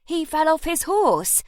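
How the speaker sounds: put-on loud, high scornful boy. A narrator's reading. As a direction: sneer it out in disbelief.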